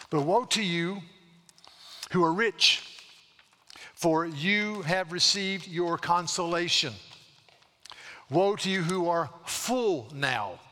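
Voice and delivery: measured, solemn pulpit reading; preaching scripture. Acted. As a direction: lean on each woe slowly.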